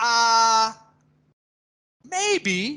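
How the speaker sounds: drawn-out "ah" followed by clear pause before "maybe". Demonstrating the interjection ah, maybe: pause after ah. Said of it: "Now listen for the pause".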